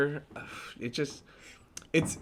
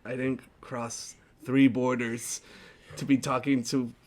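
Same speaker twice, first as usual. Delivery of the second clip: mock East Coast; 2 semitones lower, 4 dB quieter than usual. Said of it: "you be East Coast".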